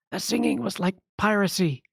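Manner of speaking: a light hint of a sneer to the bard; whispered heckle. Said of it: "they whisper to you".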